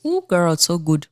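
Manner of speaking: just sipped hot tea; sipping hot tea. Real, not acted. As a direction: savour the tea while talking. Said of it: "let me sip my tea".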